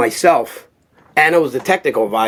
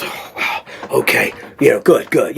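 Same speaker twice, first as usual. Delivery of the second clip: hushed impressed aside. Retold or imitated. Stallone calming, impressed.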